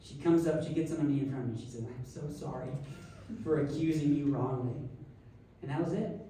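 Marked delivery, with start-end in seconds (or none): 1.9-4.8 subdued, slightly lower mock-solemn apology; understated contrite official; retold somber apology. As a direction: apologize soberly, lightly acted.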